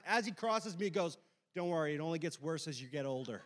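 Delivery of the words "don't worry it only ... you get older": lightly imitated old man. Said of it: "an old guy in the back of class".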